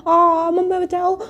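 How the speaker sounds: hammed-up cry for help. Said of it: "Ruhi नौटंकी करते हुए कहती है".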